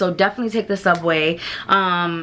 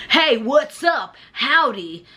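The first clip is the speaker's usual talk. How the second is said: slow, drawn-out mock brash American greeting; rude American tourist; 5 semitones higher, much slower than usual. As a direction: ham up an obnoxious American tourist. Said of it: "the jerk asshole American being like".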